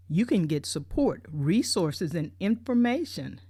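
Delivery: upbeat brochure read-out, each item listed. Retold or imitated. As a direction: sell it like the pamphlet does. Reading the brochure's promise.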